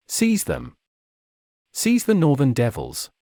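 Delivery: a baron ordering his troops in full wrath; screaming in wrath. A narrator's reading. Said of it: "at full wrath and screamed".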